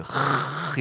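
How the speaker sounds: long throaty rasp on 흐; 흐 as a drawn-out voiceless rasp; guttural h demo. Shown as a demonstration. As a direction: scrape 흐 from the back of the throat. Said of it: "이렇게 읽습니다".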